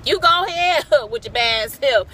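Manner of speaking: put-on high, loud laughing excuse me baby; hammed-up sassy laugh through it; laughing mock apology. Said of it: "And then she laughs said".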